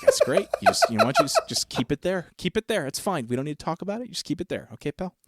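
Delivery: a dad gently humoring his son; indulgent dad. Retold or imitated. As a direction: jump high into an exaggerated pleased tone, then settle.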